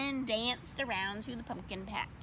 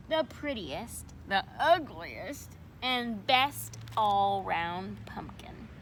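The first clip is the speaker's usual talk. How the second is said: teacher voice; slower than usual. Acted. Teacher explaining the contest.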